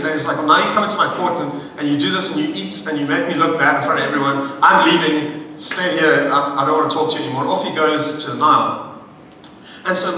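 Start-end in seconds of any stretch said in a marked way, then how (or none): 0.4-7.5 mildly indignant. Retold or imitated. Pharaoh complains at being shown up in court, mildly indignant. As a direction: act put out, speeding up to cut it off. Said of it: "he's probably just indignant".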